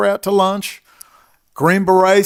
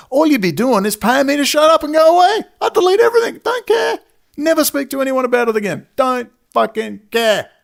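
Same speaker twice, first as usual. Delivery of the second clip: much higher, louder angry outburst; furious high shout; 9 semitones higher, 4 dB louder than usual. Real, not acted. Fed up with being paid to shut up, furious shout. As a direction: let it crack upward in real fury. Exhausted rant at his critics.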